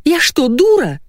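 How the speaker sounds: high, indignant outburst; flaring up. Acted. Wife insulted by husband's suggestion, high indignant flare. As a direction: snap back, offended and furious. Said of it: "взбеленилась жена".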